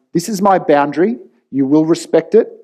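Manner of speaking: stating a line he won't let be crossed; with certainty. Retold or imitated. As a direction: lay down the boundary with conviction. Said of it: "with certainty".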